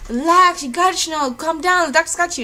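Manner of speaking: high, loud, frantic encouragement; urgently calm someone while panicking yourself; acted-out panicky pep talk; freaking-out friend. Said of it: "My best friend is freaking out".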